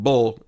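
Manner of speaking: BULL said alone as the last piece of syllable; isolated syllable. Shown as a demonstration. Teacher breaking the word syllable apart, bull isolated. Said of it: "as the final syllable".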